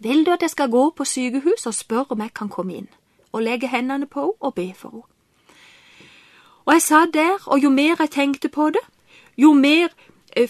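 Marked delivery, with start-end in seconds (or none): 0.0-5.1 much softer, breathy hushed prayer; whispered prayer. Retold or imitated. To Jesus at home, a whispered prayer. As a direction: pray it under your breath, intimate. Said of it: "og så sa jeg".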